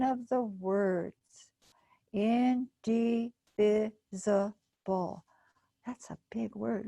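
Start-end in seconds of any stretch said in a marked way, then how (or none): 2.1-5.2 indivisible drawn out slowly, syllable by syllable. Shown as a demonstration. Teacher sounding out a big word slowly. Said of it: "Let's try it again".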